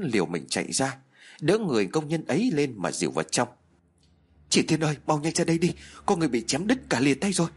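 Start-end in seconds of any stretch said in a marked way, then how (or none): 4.5-7.5 fast, urgent shout for help; hurried panicked call to a neighbor. Acted. Trân calls out for help.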